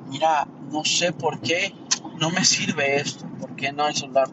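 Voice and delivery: asking the phone store clerk for help, calm and polite; calm customer. Retold or imitated. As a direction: explain it kindly, with no anger. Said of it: "si yo llego a T-Mobile y le digo".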